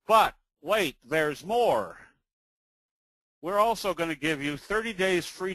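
a mild mock TV pitchman, punch the opening; infomercial pitchman. Teacher selling his course, mock infomercial pitch.

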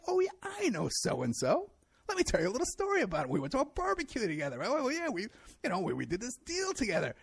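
a hammed-up braggart telling a chummy story; mocking bragging guest.

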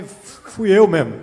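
slow, drawn-out confession; slow wry admission; slow punchline. Real, not acted. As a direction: land the self-roast slowly. Self-deprecating punchline.

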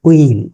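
উইল as "wiil", no h; correct pronunciation. Shown as a demonstration. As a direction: begin উইল directly on w. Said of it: "তারা কিন্তু হুইল বলবে না". (উইল, হ ছাড়া শুদ্ধ উচ্চারণ)

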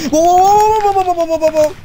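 high, loud repeated whooping; panicked babble. Pretend. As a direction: rattle off a high string of frantic whoas. Panicked running in the game.

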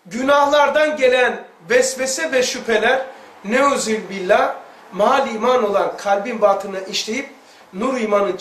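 measured preacher's recitation; preaching recitation. Acted. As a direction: intone it like quoting holy text. Quoting scripture in preaching tone.

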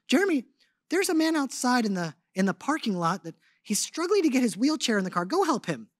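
lightly voiced wife urging him to help. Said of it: "she's usually my higher voice anyway".

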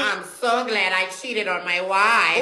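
slow, odd parrot mimicry. Parrot exposing the husband, slow parrot voice. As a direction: drawl it out like a talking parrot.

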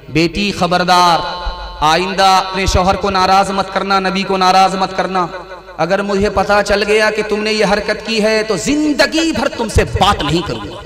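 a father's loud stern caution; stern fatherly warning. Acted. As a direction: warn her like a strict father. Umar sternly warns his daughter.

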